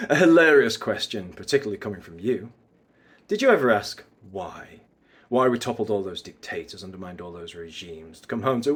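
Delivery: restrained bad guy monologue; mysterious bad guy. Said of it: "bad guy mysterious vibes".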